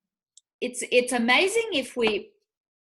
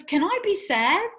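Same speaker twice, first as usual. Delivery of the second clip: mimicking son; 9 semitones higher, 4 dB louder than usual. Son pleading, high.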